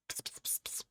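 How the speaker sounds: hushed unvoiced psst; whispering to get attention; whispered psst. Real, not acted. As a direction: call the pet in a whisper. Whispering to pet.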